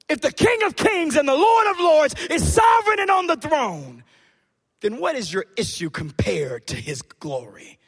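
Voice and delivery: preaching. Acted. Preaching contrast.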